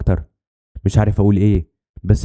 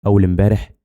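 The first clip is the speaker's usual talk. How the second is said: rising echo question in disbelief; stunned. Acted. Two friends learning the dealer died, stunned. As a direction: repeat it back, mildly astonished. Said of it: "بصينا لبعض بذهول".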